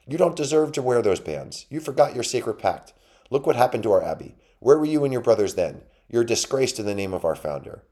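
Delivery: high, loud outraged little mouse; angry accusation. A narrator's reading. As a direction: berate the deserter in rising outrage. Mouse berates turtle while attacking.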